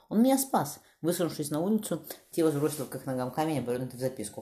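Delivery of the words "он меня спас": put-on higher, louder little girl calling down; a frightened girl begging from above; child's voice. A narrator's reading. Girl calls down from the window, pleading in a high child's voice. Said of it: "раздался детский голос сверху".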